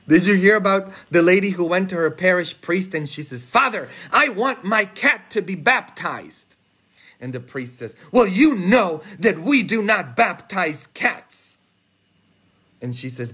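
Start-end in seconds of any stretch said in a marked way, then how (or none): 3.5-6.6 lightly voiced higher parishioner making a request; a hint of an earnest petitioner; pleading parishioner. Parishioner petitioning priest in joke. 8.1-11.6 slow, higher, lightly acted refusal; mock admonishing priest.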